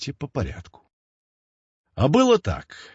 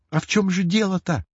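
put-on impatient girl; 7 semitones higher than usual. A narrator's reading. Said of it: "не выдержала Оля".

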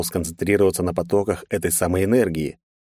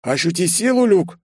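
higher voice, mock-solemn movie line; mock serious; 11 semitones higher than usual. A narrator's reading. Лёха parodies the mentor's phrase, mock solemn. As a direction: ham up the famous quote. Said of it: "серьёзно добавив".

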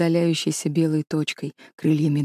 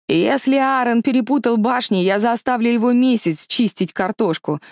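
puffing; 5 semitones higher than usual. Acted. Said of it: "пропыхтел Эшден".

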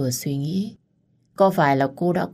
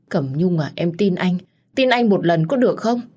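pleading; 3 semitones higher, 3 dB louder than usual. Acted. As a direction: beg to be believed, building in pitch. Lover begs to be believed. (van nài tha thiết, cao dần)

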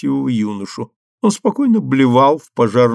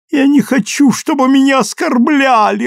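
much higher, louder tearful wail; sobbing; 13 semitones higher, 5 dB louder than usual. A narrator's reading. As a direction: cry it out, offended. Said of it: "рыдала она". (сквозь рыдания)

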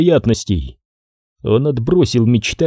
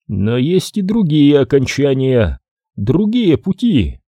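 prophetic trance voice; 4 semitones higher than usual. Acted. Oracle speaks prophecy.

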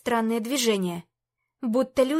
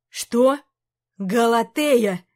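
alarmed cry; 6 dB louder, much slower than usual. Acted. King alarmed.

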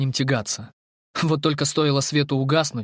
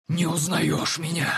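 creature voice; 4 semitones higher, slower than usual. Acted. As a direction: hiss like a shadow creature. Creature speaks.

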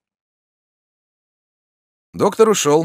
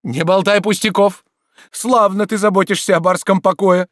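loud, high, ever more forceful; growing insistence; 12 semitones higher, 7 dB louder than usual. Acted. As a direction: build conviction line by line. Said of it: "с возрастающей убедительностью".

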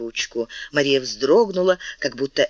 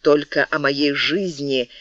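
pleading; 4 semitones higher than usual. Acted. Мария умоляет короля.

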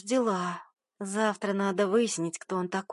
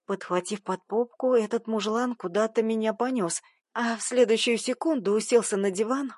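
ordinary delivery, nothing marked

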